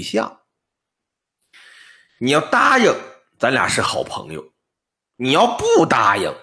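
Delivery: put-on old man voice. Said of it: "老翁说".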